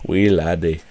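half-hearted mock Scottish; playful, amateur Scottish lilt; poor Scottish accent. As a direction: try a Scottish accent, not very well. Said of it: "I don't have a very good Scottish accent".

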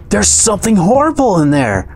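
high, frightened halfling voice; trembling halfling. A narrator's reading. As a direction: warn them in a high, fearful character voice.

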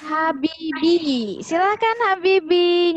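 drawn-out name call; calling out a pupil. Real, not acted. Teacher summoning Habibi to present, drawn-out calling.

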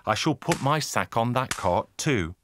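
high, slow relief easing down; weary traveller. Acted. Tired man spotting a cart for his sack, high and drawn out.

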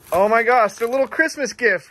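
light up at the surprise; excited. Real, not acted. Gushing with delight on seeing June's Christmas gifts.

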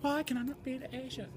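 high-pitched put-on Asian accent. Objecting to friend who says he's not Asian, in a put-on Asian accent. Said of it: "You're not supposed to be Asian".

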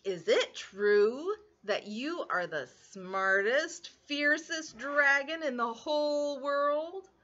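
slow, drawn-out sweet-talk; mock flattering. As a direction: flatter the dragon slowly. Elizabeth flatters the dragon.

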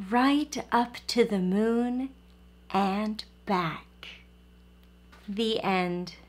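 gentle bedtime storybook read; reading to children. A narrator's reading. Storyteller reading a bedtime book to the children, gently. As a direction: read it aloud to little listeners.

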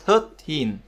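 put-on slow "thirteen" stressed on -teen; teacher's clear "thirteen", second syllable stressed. Shown as a demonstration. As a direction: draw out "thirteen", weight on the ending. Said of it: "trọng âm sẽ là âm".

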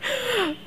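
soft, high little giggle; short giggle. Real, not acted. Speaker teasing poor Ian before the audience, soft short giggle. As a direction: giggle briefly under your breath. Joking about a colleague.

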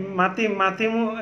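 slow, unsure Sylheti; halting Sylheti attempt. Shown as a demonstration. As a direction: try out Sylheti words haltingly. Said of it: "সিলেটে ভাষা পারি না".

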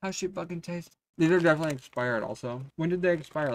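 talking while chewing; mouth full. Real, not acted. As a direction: chew and talk at once. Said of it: "eating chips while talking".

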